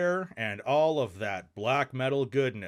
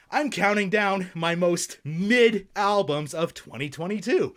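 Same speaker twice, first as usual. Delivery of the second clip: irritated, grudging intro, slightly higher; 4 semitones higher than usual. Acted. Vlogger to viewers introducing the list, irritated. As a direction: spit out the intro reluctantly. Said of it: "Sorry for that rant earlier".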